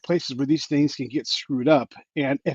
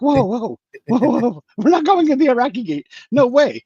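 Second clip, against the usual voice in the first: incredulous refusal; 10 semitones higher, 6 dB louder than usual. Retold or imitated. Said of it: "We're like".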